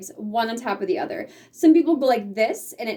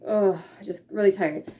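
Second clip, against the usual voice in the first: weary demo; 4 semitones lower than usual. Shown as a demonstration. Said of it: "slouch your shoulders forward and look tired".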